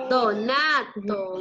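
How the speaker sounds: slow, low syllable-by-syllable dictation; dictation pace. Shown as a demonstration. Repite el dictado a niños. (dictado lento y grave, sílaba por sílaba)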